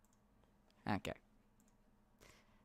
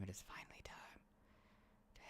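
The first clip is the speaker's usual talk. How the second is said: whisper; 5 semitones lower, 22 dB quieter than usual. Pretend. Whispered repeat of the announcement.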